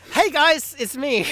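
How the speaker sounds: loud, high, bouncy hello; excited greeting. Real, not acted. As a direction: restart with a big energetic hey. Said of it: "Never mind".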